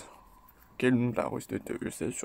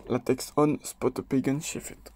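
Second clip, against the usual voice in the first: self-mocking rough try at a London English accent; English accent attempt. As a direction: read the drill line in a clumsy London English accent. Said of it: "mon accent pue la merde".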